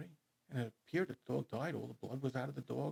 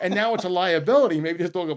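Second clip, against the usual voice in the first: laughing; 5 semitones higher, 16 dB louder than usual. Real, not acted. Laughing about the absurd outcome.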